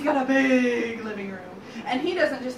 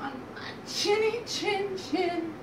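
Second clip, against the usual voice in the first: high, slow, deliberate piglet refusal; defiant little pig; 7 semitones higher, slower than usual. Acted. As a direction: refuse the wolf word by word.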